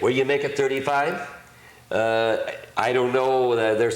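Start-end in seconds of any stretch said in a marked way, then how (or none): 0.0-1.3 rising finish on "make it"; end on make it. Shown as a demonstration. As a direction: lift the call up on "make it". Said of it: "end with the word "make it".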